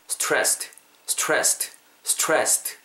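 "stressed" with crisp st at both ends; careful model "stressed", final t released; sounded consonants. Shown as a demonstration. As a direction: keep every st in "stressed" audible. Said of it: "스트, 이 발음까지 살려주시면은".

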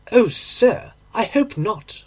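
high-pitched, mildly dismayed landlady. Acted. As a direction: react to bad news as the landlady. Landlady hears her lodger died.

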